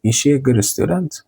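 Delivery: "Is she" linked as "ishee" in a question; silent S. Shown as a demonstration. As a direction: ask it with "Is she" merged into "ee-shee". («Is she» پیوسته و بدون S، مثل «ایشی»)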